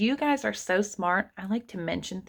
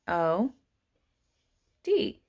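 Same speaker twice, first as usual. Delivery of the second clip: ordinary talk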